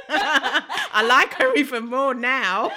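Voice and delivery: slow words through laughter; laughing. Real, not acted. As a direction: giggle through it. Laughing delight.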